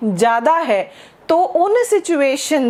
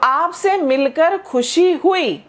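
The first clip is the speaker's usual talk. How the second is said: slow model phrase; 2 semitones higher, slower than usual. Shown as a demonstration. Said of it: "इसको कहने के दो तीन तरीके हैं".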